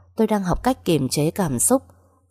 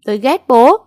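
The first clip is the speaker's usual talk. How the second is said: furious shout; 8 semitones higher, 9 dB louder than usual. Acted. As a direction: shout it out, much higher and louder. Daughter screams at father. (hét lên giận dữ)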